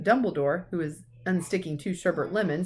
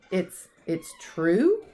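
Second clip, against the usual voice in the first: faltering; 3 dB louder, much slower than usual. Acted. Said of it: "faltered Professor McGonagall".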